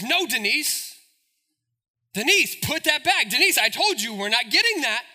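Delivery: put-on firm warning to a child; scolding mother.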